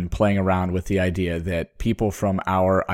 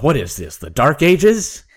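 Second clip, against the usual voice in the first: muttered disbelief; 7 semitones higher, 5 dB louder than usual. Retold or imitated. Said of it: "mutters to himself".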